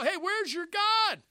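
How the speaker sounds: high, drawn-out hollered taunt; mocking shout. Elijah jeering at the outnumbering prophets, mocking shout. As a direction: call out loudly to jeer them. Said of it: "He mocked him".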